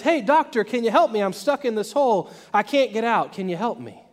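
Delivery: mock call for help from below; shouting up. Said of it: "he shouts up".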